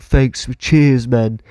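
imitated British bloke, Cockney accent; matey Cockney thanks. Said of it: "Cockney one down".

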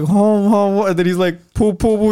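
imitating a comedian's put-on Asian accent; mock thick Asian accent. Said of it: "like, a thick Asian accent".

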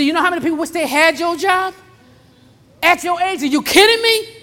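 high, incredulous mild scolding; acted rebuke, rising to the last question; scolding Lord. The Lord rebuking a complaining worker, incredulous scolding. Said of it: "stop whining and moaning and murmuring".

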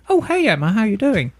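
high, friendly, sing-song greeting of a polite customer. Retold or imitated. Shop owner voices a reasonable customer greeting her, high and chirpy. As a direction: chirp it up high like a pleasant regular walking in.

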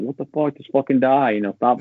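sharp high burst of exasperation at the screen; mock-rage at a boss that won't die; frustrated outburst. Player yelling at the boss, exasperated and high.

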